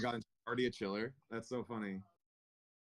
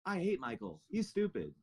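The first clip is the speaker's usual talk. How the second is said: put-on much higher, childish whine; mock a sulky kid; whiny mock voice; 10 semitones higher, slower than usual. Mock driver whining.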